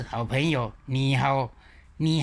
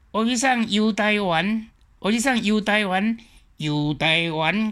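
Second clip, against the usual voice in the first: put-on Zhangzhou-accented line, higher, louder, slow; 5 semitones higher, 3 dB louder, slower than usual. Teacher contrasting with Zhangzhou accent. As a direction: repeat the drama line the Zhangzhou way. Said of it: "漳州腔的时阵".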